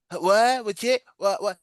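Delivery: high-pitched, stumbling mimicry; imitated confused guest. Guest answering the chicken question, mock confused and high. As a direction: mimic a flustered customer who can't follow.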